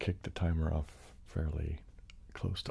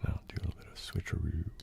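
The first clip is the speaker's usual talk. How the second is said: whisper. Real, not acted. ASMR streamer whispering before switching sides. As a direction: keep it a hushed whisper.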